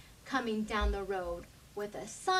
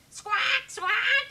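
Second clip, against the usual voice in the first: high, loud bird squawks; shrill bird screech; 11 semitones higher, 4 dB louder than usual. A narrator's reading. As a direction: screech like greedy birds.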